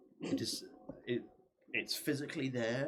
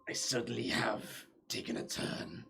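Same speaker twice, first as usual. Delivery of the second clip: ancient rasping undead king. Acted. GM answers as the Lich.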